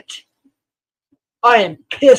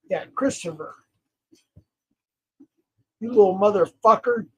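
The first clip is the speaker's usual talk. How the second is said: usual speaking voice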